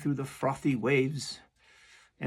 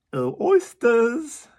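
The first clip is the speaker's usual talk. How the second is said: loud, much higher call, slow; carpenter calling; 11 semitones higher, 11 dB louder, slower than usual. Acted. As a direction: call out to the oysters. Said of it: "said the carpenter".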